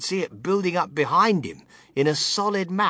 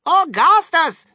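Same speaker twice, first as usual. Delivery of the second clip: loud, drawn-out fatherly yell; father calling out sharply to his son; father's cry; 13 semitones higher, 9 dB louder, slower than usual. A narrator's reading. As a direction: bellow the name slowly, pitched up. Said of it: "cried Mister Gloop".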